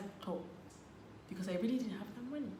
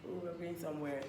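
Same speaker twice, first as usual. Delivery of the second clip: softer, coy secret-keeping; teasing secret; 3 semitones lower, 7 dB quieter than usual. Retold or imitated. Girlfriend teasing boyfriend about the destination, hushed. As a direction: keep the surprise hushed and coy. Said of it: "I'm like".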